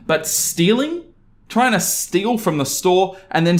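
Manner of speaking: shocked, rising question; incredulous. Real, not acted. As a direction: pitch leaps up in disbelief. Outraged disbelief at theft.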